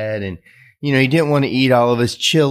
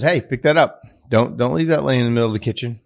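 tag; 2 semitones higher, faster than usual. Retold or imitated. Father corrects his little boy.

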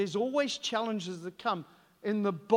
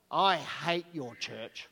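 put-on a light little-girl voice, slow and sulky; imitating a small child; 7 semitones lower, 4 dB quieter, slower than usual. Preacher voicing a sulky toddler tugging at him, lightly. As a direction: voice the toddler tugging his trouser leg. Three-year-old girl quoted in story.

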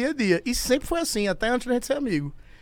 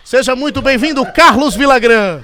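TV host announcement; 6 dB louder than usual. Acted. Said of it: "Nós estamos recebendo aqui no nosso estúdio".

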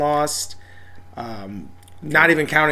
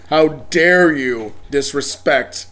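mock outrage; 3 dB louder, slower than usual. Mock outrage defending Thor.

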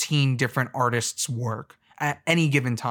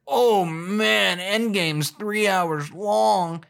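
mock whiner; 5 semitones higher, much slower than usual. Mocking moviegoer complaint.

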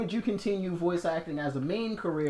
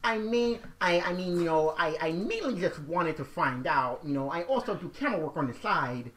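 neckbeard applicant voice. Pretend. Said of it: "gross neckbeard voices".

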